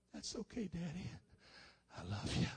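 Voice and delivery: hushed, tender imitation of a little boy; soft child's reply. Young son hugging his crying daddy, softly forgiving.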